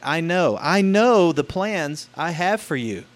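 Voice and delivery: lightly voiced youth pastor; "I know the plans I have for you," a bit slow and eager; upbeat youth pastor. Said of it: "says the youth pastor".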